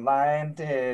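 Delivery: normal talking voice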